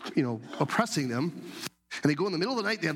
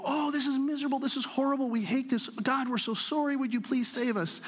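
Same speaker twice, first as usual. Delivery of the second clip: higher, pleading mock lament; mock miserable whining; 9 semitones higher than usual. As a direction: play the sorry, miserable Israelites, a bit hammed-up. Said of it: "And the Israelites would go".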